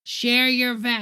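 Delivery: slow, mumbled, trailing off; mock slurred politician; imitating Perdue. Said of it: "he couldn't say values".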